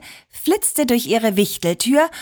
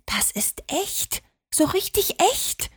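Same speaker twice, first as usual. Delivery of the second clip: quiet awe; 9 semitones higher, 6 dB quieter than usual. A narrator's reading. Liliana tells her sister it is real, in hushed awe. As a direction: whisper in wonder, lifting at the end. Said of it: "sagte Liliana leise".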